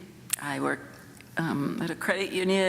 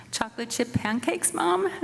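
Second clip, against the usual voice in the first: wheedling; 5 semitones higher than usual. Retold or imitated. Son wheedling for pancakes.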